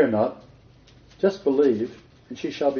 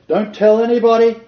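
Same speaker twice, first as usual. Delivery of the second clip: higher, louder, mock stern; knowing command; 8 semitones higher, 7 dB louder than usual. Yeshua telling the family, mock stern command. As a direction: wink while forbidding. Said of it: "Yeshua says to the family".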